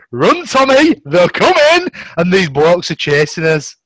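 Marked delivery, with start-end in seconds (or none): 0.1-1.9 high, loud panicked call to run; urgent yell. Retold or imitated. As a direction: shout to your mate to get out now. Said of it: "And then goes".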